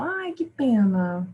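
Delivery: drawn-out, wistful "ai, que pena"; emotional exclamation. Shown as a demonstration. Teacher showing learners an emotional interjection, emotional. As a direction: stretch it out with feeling. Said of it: "ah, emocional".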